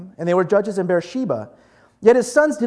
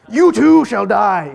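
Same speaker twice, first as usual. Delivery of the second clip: loud, slow playful doom; mock death sentence; 8 dB louder, slower than usual. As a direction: pronounce mock doom, drawing it out loudly. Playing doom-giver to the ants.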